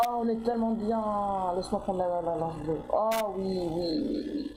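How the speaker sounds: drawn-out, blissful gushing; over-the-top drawn-out relish; awkward delight. Real, not acted. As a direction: savour it slowly, almost moaning with delight. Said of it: "ce moment de malaise".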